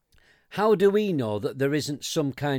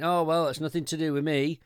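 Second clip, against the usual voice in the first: dismissive politician; 4 semitones higher than usual. Retold or imitated. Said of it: "Boris Johnson's asked".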